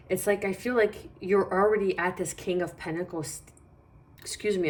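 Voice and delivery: hiccuping mid-sentence; talking through hiccups. Real, not acted. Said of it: "I'm hiccuping".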